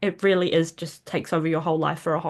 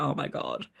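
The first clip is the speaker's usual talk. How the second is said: breathy, dropped-down "Oh my God"; hushed realisation; 8 dB quieter than usual. Retold or imitated. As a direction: let the realisation sink in quietly. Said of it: "I was just like".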